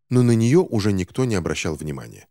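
ordinary delivery

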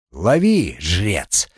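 hissed taunt from a vampire; hissing feral vampire. Acted. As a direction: hiss it out like a fanged predator. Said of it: "прошипел кровосос". (шипящий вампир)

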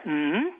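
mocking rising "mm"; exaggerated presenter hum; imitated hum. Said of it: "Jag behöver inte säga".

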